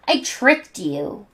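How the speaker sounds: slow, smug gloat. Acted. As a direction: savor the trick.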